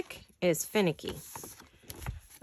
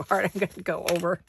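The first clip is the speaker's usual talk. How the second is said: laughing; faster than usual. Real, not acted. Laughing at her own breath-holding.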